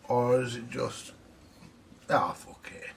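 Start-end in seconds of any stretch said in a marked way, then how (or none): 2.1-2.9 muttered curse. Real, not acted. Muttered frustrated aside to himself.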